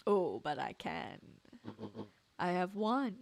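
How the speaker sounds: smooth scheming villain, lightly voiced; a hint of a gloating mastermind. Villain gloats about winning.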